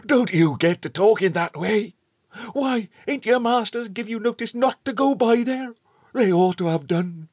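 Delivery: put-on a hearty old countryman calling out; old rustic shepherd. A narrator's reading. Shepherd warns the boys.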